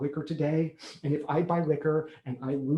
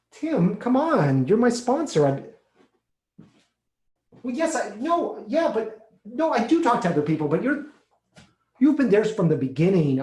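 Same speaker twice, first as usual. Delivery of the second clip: much higher and louder, pleading; begging his sponsor, pitched up and louder in distress; desperate pleading; 6 semitones higher, 5 dB louder than usual. Acted. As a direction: beg him not to hand you off. Begging his sponsor not to leave.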